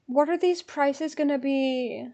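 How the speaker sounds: slow, stretched-out question; drawn-out worry. Real, not acted. Fan fretting over ticket prices, drawn-out worry. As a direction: draw the question out anxiously.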